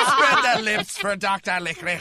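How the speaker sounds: cracking up while playing the creepy doctor; laughing mock doctor line. Joking with friends about a gynecologist, laughing.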